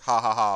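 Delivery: dismissive ha-ha-ha; mock laugh. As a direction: fake a laugh in plain words. Mocking his own funny stories.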